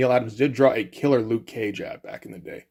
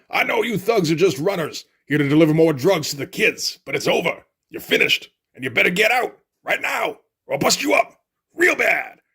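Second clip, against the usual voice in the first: a light, higher Mister T tough-guy voice; Mister T impression; 4 semitones higher than usual. Reading Mister T's threat to drug runners in a mock tough voice. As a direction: threaten the thugs like a comic-book tough guy. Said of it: "I'm starting to remember the Mister T voice".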